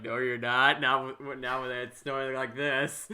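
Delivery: hammed-up voice of the weather refusing; mock loud retort. The snowstorm answering the vaccine officials, mock loud retort.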